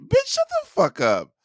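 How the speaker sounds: high-pitched furious snap; mock angry outburst. Retorting angrily to classmate.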